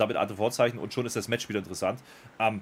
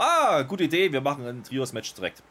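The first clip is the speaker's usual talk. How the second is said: mock Adam Pearce; 4 semitones higher, 3 dB louder than usual. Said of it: "da wäre Adam Pearce rausgekommen".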